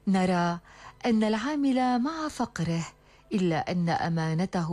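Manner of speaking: hakawati addressing his listeners; arabic storyteller. Acted. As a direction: deliver the moral like a storyteller. Storyteller addresses audience with moral. (راوٍ حكواتي يخاطب السامعين)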